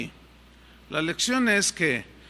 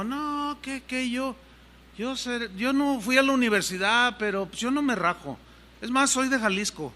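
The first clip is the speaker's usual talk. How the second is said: half-swaggering; 4 semitones higher than usual. Acted. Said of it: "así medio envalentonado".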